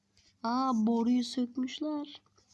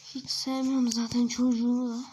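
louder complaint; 7 dB louder than usual. Acted.

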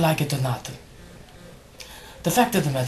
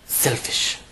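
whispered insult; 2 semitones lower than usual. Acted. Muttered insult after sigh.

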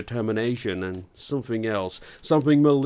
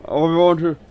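forced out hard and loud; spat out; 7 semitones higher, 7 dB louder than usual. Acted. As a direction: spit the words out. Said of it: "he spat out the words".

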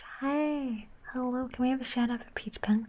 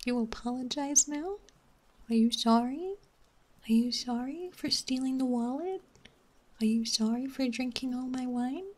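mock scolding owner; 3 semitones higher than usual. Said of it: "being like".

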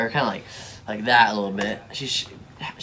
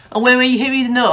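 mock whiny boxer; 10 semitones higher, 6 dB louder, much faster than usual. Mocking a boxer's complaint.

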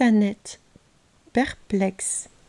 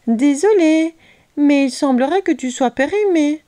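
higher, lightly voiced boy; mock-apologetic boy; 4 semitones higher, 4 dB louder than usual. Léo teases the boxed Croquedouille, mock-apologetic. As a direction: feign an apology in a raised voice. Léo mocks the trapped trickster.

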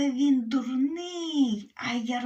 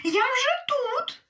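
much higher, loud, slow call; shout; 13 semitones higher, 4 dB louder, slower than usual. Acted. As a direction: stretch out a gleeful shout. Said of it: "а їжак йому кричить". (гучний протяжний вигук)

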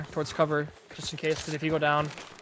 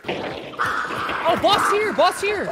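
excited shout; 14 semitones higher, much slower than usual. Real, not acted. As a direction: yell out the discovery. Found the boss, excited.

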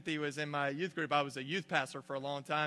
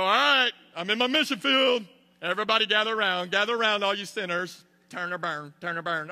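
much higher, much louder, hammed-up hellfire preacher; street preacher mockery; 6 semitones higher, 10 dB louder than usual. Pastor mocking a coworker preaching at the office, hammed-up hellfire shout. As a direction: shout it like an overzealous street evangelist. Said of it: "that form of evangelism".

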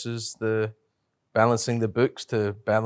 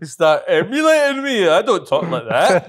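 mock protest; 9 semitones higher, 9 dB louder than usual. Real, not acted. Protesting mock outrage, laughing.

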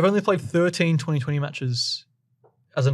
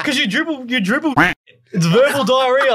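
higher, laughing through the words; 7 semitones higher than usual. Real, not acted. Explaining the dribble joke to mates, laughing. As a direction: giggle while explaining.

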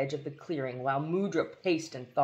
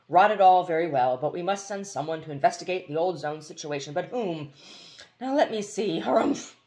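blustering general; 2 semitones higher, 4 dB louder than usual. Acted.

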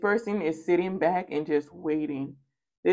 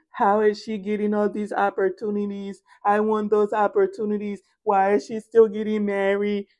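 jealous inner voice; 3 semitones higher than usual. Retold or imitated. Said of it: "stuck in her mind".

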